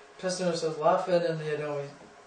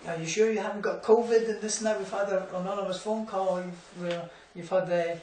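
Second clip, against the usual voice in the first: mock official questioning; 4 semitones higher than usual. Retelling the agent's covid questions.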